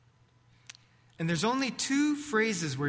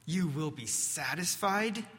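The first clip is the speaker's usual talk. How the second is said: muttered mockery. Peter doubting Jesus' promise to himself, in a mild muttered scoff. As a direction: scoff at it privately, barely moving the voice. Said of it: "Peter mutters to himself".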